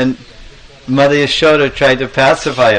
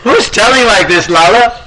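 higher, pressing question; concerned mother; 9 semitones higher, 3 dB louder than usual. Acted. Mother Yashoda to crying Krishna, concerned demand. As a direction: demand to know who upset the child. Indignant mother asks who teased.

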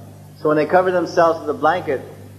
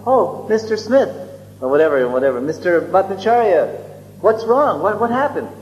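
feigned innocence; 5 semitones higher than usual. Retold or imitated. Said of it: "as if he didn't know anything".

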